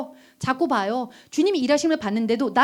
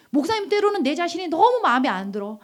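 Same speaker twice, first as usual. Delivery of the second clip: normal talking voice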